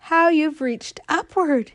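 very high, loud, slow "Oh, my heart"; joyful cry. Acted. Growing acorn crying out in joy. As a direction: burst out in wonder. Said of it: "till she cried out".

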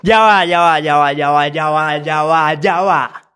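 loud, insistent repeated cut-in; urgent interruption. Real, not acted. Commentator halting the fight clip to comment, loud insistent interruption. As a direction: break in loudly to halt everything.

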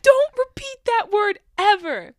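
high, loud, slow command; stern teacher scolding. Retold or imitated. Teacher retelling her warning to the class, loud scolding. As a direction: lay down the law, loudly and slowly. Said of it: "I was like".

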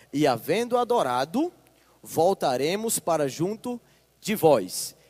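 deliberate pulpit reading; scripture reading. Acted. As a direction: read the passage with weight, word by word. Continues reading the passage.

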